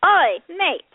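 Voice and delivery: high, loud British mate calling out; hammed-up "oi, mate" impression; Colin. Host imitating her friend for co-host, mock calling out. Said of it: "my friend Colin be like".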